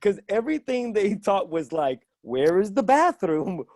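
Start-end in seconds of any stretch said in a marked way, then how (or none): 2.2-3.6 slow, over-enunciated entitled tourist; arrogant. Acted. American phrasebook lines aimed at locals, arrogant. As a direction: demand it haughtily, word by word. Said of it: "in a very arrogant way".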